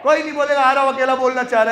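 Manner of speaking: loud teacher scold; scolding shout. Real, not acted. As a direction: shout to get the class answering. Scolding silent class.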